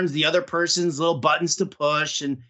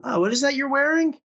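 mock snooty remark; 9 semitones higher than usual. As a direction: needle her like a catty critic, drawing it out. Mock remark to his wife.

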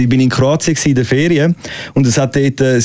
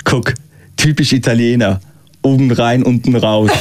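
put-on German accent; 4 semitones lower than usual. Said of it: "sagt der eine zum anderen einfach".

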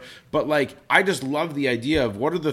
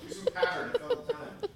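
whispered aside; 8 dB quieter than usual. Real, not acted. Aside while fetching mushroom.

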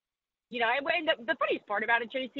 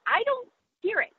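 higher voice, a hint of her mother's accent; imitating mom; 5 semitones higher than usual. Mom insisting she has no accent, lightly imitated higher voice. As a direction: lightly play the oblivious mother. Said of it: "She's like".

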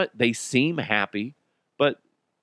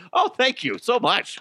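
mock gracious thanks; 11 semitones higher than usual. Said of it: "I have a gift for acting".

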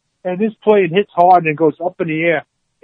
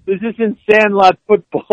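half-hearted mock yell; 4 semitones higher than usual. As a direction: toss off "Sandlot" with a mild push. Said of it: "Herman yells over them".

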